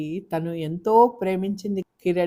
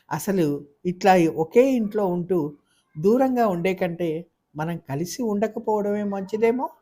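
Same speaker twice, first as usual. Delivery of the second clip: heated plea; 3 semitones higher than usual. Acted. Wife confronts husband in quarrel.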